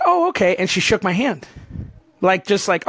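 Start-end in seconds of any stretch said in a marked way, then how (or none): 0.0-0.5 bright mock saleswoman. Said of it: "She's like".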